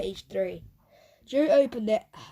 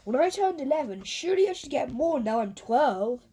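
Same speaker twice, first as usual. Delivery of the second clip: whining; 3 semitones higher than usual. Acted. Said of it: "whined Joe".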